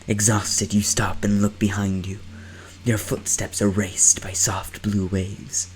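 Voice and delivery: hushed eerie narration; whispering narration. Acted. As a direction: breathe the words out secretly.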